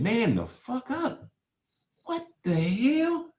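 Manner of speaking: high, slow, disbelieving imitation of a harsh brother; mock incredulous retort. Retelling his brother's harsh retort, mock incredulous and slow. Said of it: "And he said".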